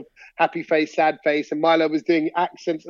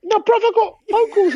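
laughing protest; 13 semitones higher than usual. Real, not acted.

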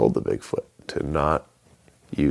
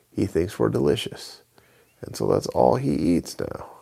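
a higher, light chicken voice; 7 semitones higher than usual. Acted. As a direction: play the chicken, chatty and higher. Chicken answers Avon.

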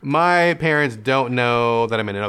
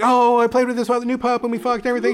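chatty gush; 10 semitones higher, 4 dB louder, faster than usual. Retold or imitated. Telling his sister news.

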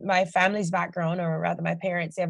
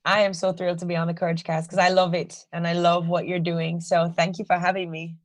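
Jamaican accent; 3 dB louder than usual. Real, not acted. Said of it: "your Jamaican accent has returned with a vengeance".

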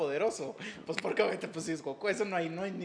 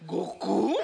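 surprised; 4 semitones higher, 5 dB louder than usual. Retold or imitated.

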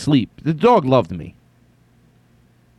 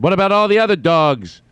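high, incredulous objection; acted exclamation, much higher than usual; imagined parent's outburst; 8 semitones higher, 3 dB louder than usual. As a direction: pitch it up in mock protest. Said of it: "what I would have said if I had a kid".

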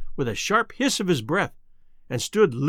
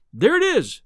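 higher, louder burst of triumph; excited cry; 8 semitones higher, 5 dB louder than usual. A narrator's reading. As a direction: call out the discovery in triumph. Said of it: "I cried".

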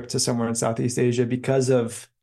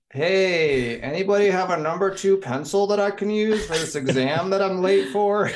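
calling to class; 7 semitones higher than usual. Retold or imitated. Asking the whole class for a pencil, embarrassed mock call-out. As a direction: imitate an awkward plea to a whole room. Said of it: "turn around to the whole class".

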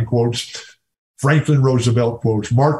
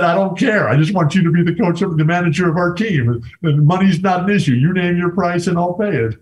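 eager owner's plea; 5 semitones higher than usual. Retold or imitated. Pirates owner begging Coach Wooden to manage, eager and insistent. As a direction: sell it hard like an owner who won't take no.

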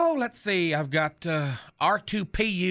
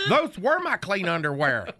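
Knucklehead's voice. Acted. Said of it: "still doing Knucklehead's voice".

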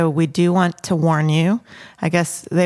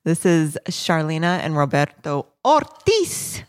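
put-on Latina accent. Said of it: "I just used my Latina voice".

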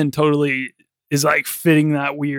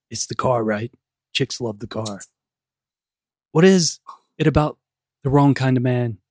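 bad acting; 2 semitones lower than usual. Shown as a demonstration. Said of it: "if you don't mind me acting a little bit".

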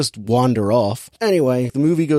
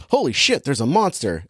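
shocked exclamation. Retold or imitated. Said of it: "And it's like".

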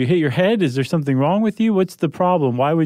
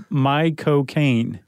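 Michael Caine accent; much slower than usual. Shown as a demonstration. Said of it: "I've got it two ways now".

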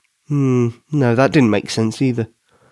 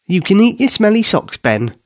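higher, playful teasing; teasing laugh; 9 semitones higher than usual. A narrator's reading. Katie teasing Ben while laughing, higher and playful. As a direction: tease him with a grin. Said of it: "she laughed".

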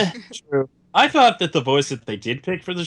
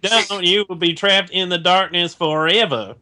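mock Osaka accent. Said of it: "Osaka accent".

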